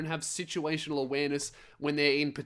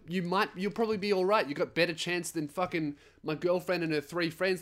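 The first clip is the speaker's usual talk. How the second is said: ordinary talk, nothing marked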